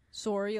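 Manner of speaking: "sorry" with a rounded "sore" first vowel; Canadian-accented "sorry", long O. Shown as a demonstration. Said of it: "when they say sorry".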